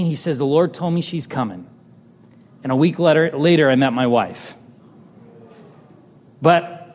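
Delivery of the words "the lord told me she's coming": lightly softened, gentle quote; understated, tender reassurance; retold gentle assurance. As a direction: quote the old man gently. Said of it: "he just says gently".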